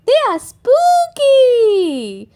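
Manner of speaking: slow, loud, drawn-out spooky voice; spooky insistence. A narrator's reading. Peppa telling Grandpa the cakes are spooky, slow and loud. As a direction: stretch it out to sound creepy.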